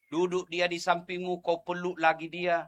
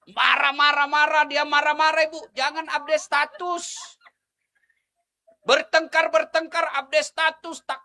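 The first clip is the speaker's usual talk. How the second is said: lebih tinggi dan keras, mendesak; ceramah berapi-api; 10 semitones higher, 9 dB louder than usual. Acted. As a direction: mengecam dengan semangat penuh. Menegur ibu-ibu dengan keras. (ustaz menegur ibu-ibu dengan ceramah berapi-api)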